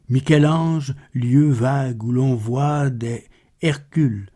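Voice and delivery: measured, solemn poem reading with pauses between images; poetry recitation. Acted. Narrator reciting Baudelaire's poem to listeners, measured poetry recitation. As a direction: recite the verse with restraint, line by line.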